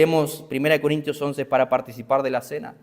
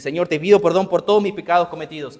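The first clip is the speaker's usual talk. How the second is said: mock routine prayer; 4 semitones higher, 5 dB louder than usual. Mocking a shallow prayer.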